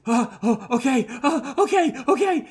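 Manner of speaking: high, flustered, laughing okays; a panicked sidekick scrambling to obey; flustered Reef. Acted. Reef flustered and fumbling as Red R barks orders. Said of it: "and Reef is like".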